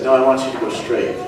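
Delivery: a mild, contained correction; small inner voice. Acted. Small voice redirects the driver at his turn, mildly firm. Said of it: "the small voice says".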